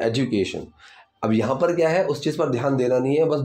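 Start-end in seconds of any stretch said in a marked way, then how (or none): 0.1-0.7 एजुकेशन with a light dj blend; careful pronunciation. Shown as a demonstration. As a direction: glide the D of एजुकेशन into j. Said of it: "ड की pronunciation इस तरीके से दी जाती है".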